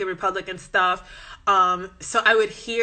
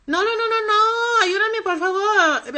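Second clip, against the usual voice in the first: imitated pleading; 11 semitones higher than usual. Customer begging clerk for help, imitated wailing plea. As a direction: beg like a desperate customer, hammed up.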